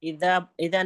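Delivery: اذا with a light, gentle ذ; soft dhal. Shown as a demonstration. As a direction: correct the pupil with a soft ذ in اذا. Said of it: "نرمی سے پڑھیے". (اذا کی ذال نرمی سے)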